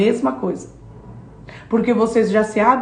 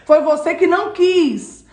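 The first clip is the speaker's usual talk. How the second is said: the Lord rebuking; 5 semitones higher than usual. Acted. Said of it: "Ele tá dizendo".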